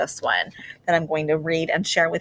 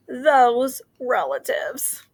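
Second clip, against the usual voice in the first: slow, fond whisper; teacher whispers a fond comment on the relatives; 6 semitones higher, much slower than usual. Real, not acted. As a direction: breathe it out, fondly shaking your head.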